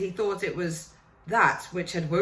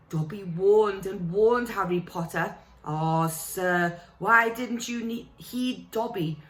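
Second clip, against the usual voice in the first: higher, pleading little elf voice; a fretful elf begging Harry to listen; house elf; 3 semitones higher than usual. Acted. Dobby the house elf pleading with Harry, high and anxious.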